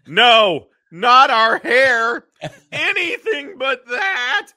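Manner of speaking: loud, high, slow wail; panicked. Retold or imitated. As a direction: shriek it in mock horror. Women panicking over their hair.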